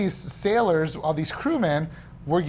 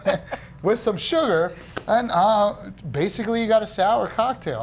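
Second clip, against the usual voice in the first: pirate voice; 4 semitones higher than usual. Pretend. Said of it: "now I'm a pirate".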